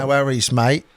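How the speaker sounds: a half-hearted Cockney accent, barely put on; bad Cockney accent. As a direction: toss it off in a lightly done, bad Cockney accent. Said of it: "that was a bad Cockney accent".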